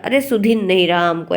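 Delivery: light village accent imitation; a hint of rural village dialect; village speech. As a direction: imitate casual village Hindi. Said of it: "ऐसे बोलते हैं ना गाँव में".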